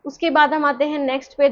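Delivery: usual speaking voice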